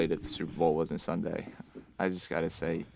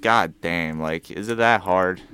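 exasperated plea; 10 dB louder than usual. Real, not acted. Fed-up friend ranting at whining fans, loud exasperated plea. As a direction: plead loudly, fed up.

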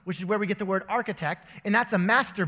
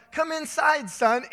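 higher, louder hurried call; urgent call; 8 semitones higher, 4 dB louder, slower than usual. Retold or imitated. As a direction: rush the kid indoors, urgently. Dad hurrying son inside.

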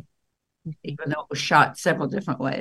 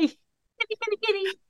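very high little pet-talk voice; cat-calling coo. Real, not acted. Woman calling a kitty to her, high cooing. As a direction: call the cat over in a high singsong.

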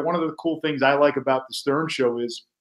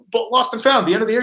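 higher, lightly mocking coworker voice; mimicking Quint; 7 semitones higher, faster than usual. Host retelling his cohost's tie excuse, higher mock voice. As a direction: play the guy airily explaining his odd tie. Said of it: "He's like".

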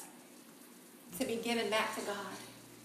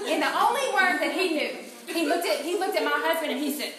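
loud, high, laughing through the words; can't hold back the laughter; real laughter while telling it; 5 semitones higher, 7 dB louder than usual. Real, not acted. Laughing while telling funny story.

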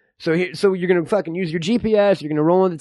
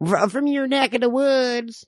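put-on old man. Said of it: "hard for me to stop talking like that".

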